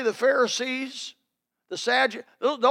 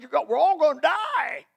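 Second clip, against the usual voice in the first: higher-pitched, rising exclamation; mock alarm; 6 semitones higher than usual. Passenger to pilot in a porpoising plane, alarmed.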